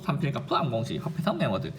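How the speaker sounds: softly paced beat on "삼필갑푸 암공시, 화폐성 메모드"; rhythmic recitation. Shown as a demonstration. Teacher repeating a mnemonic for students, rhythmically. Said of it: "리듬을 타야 돼요".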